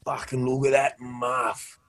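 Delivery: slow, lightly voiced old bloke in awe; drawn-out mock wonder of an old fella; old fella marvelling. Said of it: "they'd open that up and be like".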